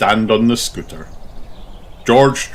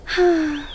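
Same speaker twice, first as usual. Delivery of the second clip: sigh. Acted. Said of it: "Peppa sighs".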